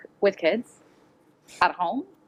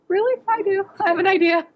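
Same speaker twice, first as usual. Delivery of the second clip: knowing sarcasm; 11 semitones higher than usual. Retold or imitated. Knowing retort to parent.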